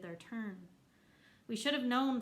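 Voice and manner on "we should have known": shouted. A narrator's reading. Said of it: "someone else shouted".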